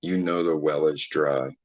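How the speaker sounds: low, quiet, slow dramatic delivery; hushed and deliberate; low, grave recitation. Acted. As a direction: recite it slowly and ominously, with long pauses. Reciting lines with dramatic gravity.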